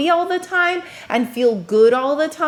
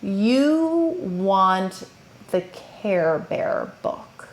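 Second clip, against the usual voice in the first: slow, soft, patient parent voice; slow calm talk; 3 semitones lower, 3 dB quieter, slower than usual. Shown as a demonstration. Parent calming a child who wants the book, slow and soft. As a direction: lower your voice and slow down for the child. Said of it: "notice how slowly I'm talking".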